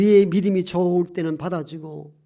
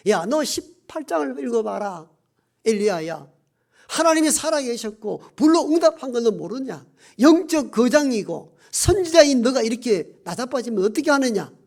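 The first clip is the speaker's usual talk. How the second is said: imagined divine scolding, mildly raised; acted reproach; 3 semitones higher than usual. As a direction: play a reproving God taking Elijah to task. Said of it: "책망할 법한데".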